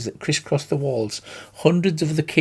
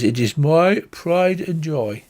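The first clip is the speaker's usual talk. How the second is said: proud slow tree voice; slower than usual. Acted. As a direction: savour each word proudly. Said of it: "he strokes it and says".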